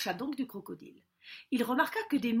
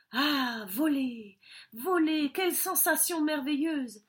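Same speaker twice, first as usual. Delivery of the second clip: delighted wonder; 4 semitones higher, 3 dB louder than usual. Acted. Bird delights in first flight.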